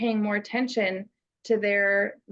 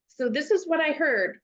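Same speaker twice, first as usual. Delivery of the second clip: imitating a student's snippy tone, pitched up at first; mimicking the tone; 4 semitones higher than usual. Mentor mimicking a student's tone back to them, lightly mocking. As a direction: parrot back how it sounded, lightly mocking. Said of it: "And I give the tone".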